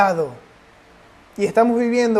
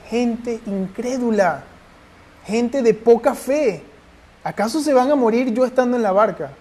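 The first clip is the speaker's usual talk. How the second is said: mock gentle rebuke; 3 semitones higher than usual.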